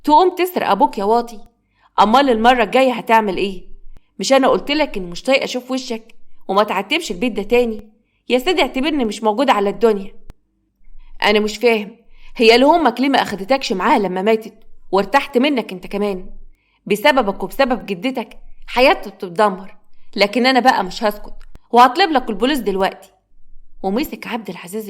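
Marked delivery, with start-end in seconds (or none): 0.0-3.7 louder, furious rebuke; raised scolding voice; angry father. Acted. Father grabs and berates son. 4.2-23.1 mildly raised, angry tirade; fed-up, threatening scolding; harsh rejection. Acted. Father rejects and threatens son.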